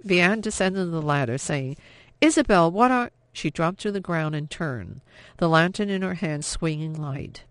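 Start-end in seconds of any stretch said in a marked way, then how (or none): 2.2-3.1 shocked. A narrator's reading. Shock at sister in cellar.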